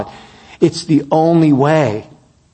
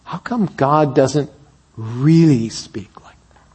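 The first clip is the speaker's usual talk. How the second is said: put-on a whispered echo of the girl's plea; whispered repeat. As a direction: repeat the question, trailing into a whisper. Same question repeated, whispered.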